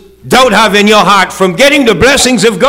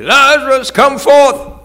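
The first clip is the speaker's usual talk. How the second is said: higher, raised call; 8 semitones higher, slower than usual. Acted. Jesus calling Lazarus from the tomb, raised. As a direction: summon him from the tomb.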